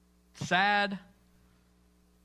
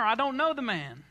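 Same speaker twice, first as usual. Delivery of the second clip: insistent denial; 4 semitones higher than usual. Retold or imitated. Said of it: "Promise, Scout's honor".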